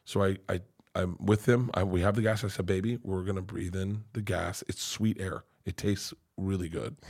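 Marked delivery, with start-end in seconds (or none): 2.7-7.0 put-on soft, low reassurance to a child; softly comforting dad; soothing parent. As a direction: gently coax a nervous child. Soothing his child before anesthesia.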